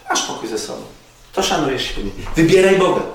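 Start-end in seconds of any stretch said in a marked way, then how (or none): 2.4-3.0 loud, high, emphatic call; preaching shout. Acted. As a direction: proclaim it to the whole room. Preacher repeating his key phrase.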